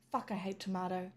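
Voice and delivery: breathy whispered fuck; defeated whisper; whispered sigh. Real, not acted. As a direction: sigh the curse out. Sighing defeated swear.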